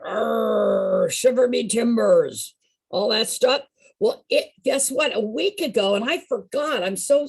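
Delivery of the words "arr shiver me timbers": lightly voiced pirate growl. Teacher reminding group about pirates, lightly voiced pirate. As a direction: imitate a pirate with a drawn-out arr. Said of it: "You know, they all went".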